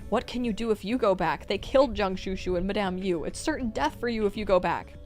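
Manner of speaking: insistent character dialogue; urgent pleading. Acted. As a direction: plead hard with someone about to run off. Urgent plea in fight scene.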